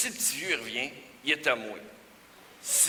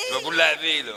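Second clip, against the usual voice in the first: loud; 8 dB louder than usual. Acted. Clown washing old people.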